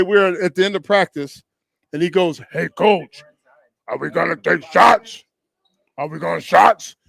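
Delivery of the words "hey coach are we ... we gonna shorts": imitated Massachusetts accent, "shorts" said "shots"; mock Massachusetts accent, lightly voiced; deep-voiced teammate like a famous singer. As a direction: do a teammate from Lynn with dropped R's. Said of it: "he sounded like a famous singer. He had that voice"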